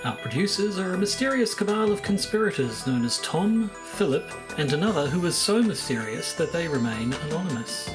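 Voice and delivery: scripted outro announcement; measured sign-off with a dry closing aside; podcast credits read. Acted. Recorded closing credits over music.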